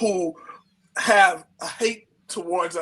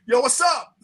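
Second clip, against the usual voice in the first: street greeting; 4 semitones higher, 4 dB louder than usual. Retold or imitated. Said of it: "one time I was like".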